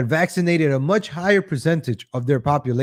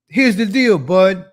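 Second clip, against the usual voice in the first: Joe Biden; 4 semitones higher, 5 dB louder than usual. Retold or imitated. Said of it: "It's like Joe Biden".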